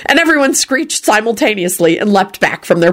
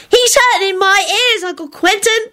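shrieked complaint; 14 semitones higher than usual. A narrator's reading. Girl complaining to uncle about singing, shrieking. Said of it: "Natalie shrieked".

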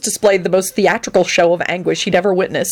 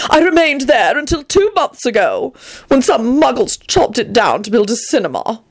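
raised, self-important storytelling; proud proclamation; 6 semitones higher than usual. Acted. Antonin explains leaving his barn, high proud account. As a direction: carry on with grand dignity. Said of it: "he proclaimed proudly".

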